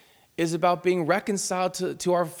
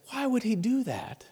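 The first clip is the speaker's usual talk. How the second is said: higher-pitched, mildly plaintive plea; imitated tearful question; 7 semitones higher, 3 dB quieter than usual. Weeping woman to a pastor, imitated hurt question. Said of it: "she is just weeping".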